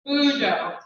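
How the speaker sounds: Bujo said with stress on the first syllable; Bujo demo. Shown as a demonstration. Teacher models Bujo for the class, first syllable stressed. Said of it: "hear the difference".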